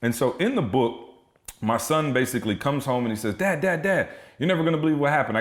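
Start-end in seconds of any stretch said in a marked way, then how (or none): 3.4-5.4 put-on higher, hurried kid-like quote; a hint of a kid bursting with news; lightly voiced excited son. Voices his excited son coming home.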